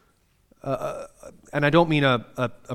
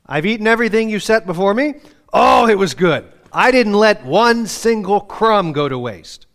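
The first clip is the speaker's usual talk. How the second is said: louder, proud bragging to his wife; mock boasting; 5 semitones higher, 6 dB louder than usual. Husband praising wife's dinner, hammed-up bragging. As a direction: crow about the clean plate.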